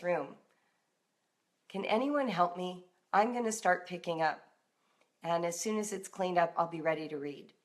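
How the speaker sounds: vulnerable ask. Shown as a demonstration. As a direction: admit you're overwhelmed and ask for help. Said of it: "You say".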